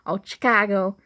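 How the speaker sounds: exaggerated chi-KAH-go on "Chicago"; mocked mispronunciation. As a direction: mimic an outsider saying "Chicago" with a hard CH.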